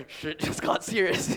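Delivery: whispered, slow, mock-grave. Telling the audience the lunch turned tense, slow whisper. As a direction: hush it like a spooked kid.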